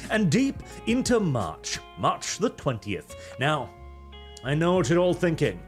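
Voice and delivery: put-on British newsreader accent; fake British accent. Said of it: "Arch literally fakes his accent".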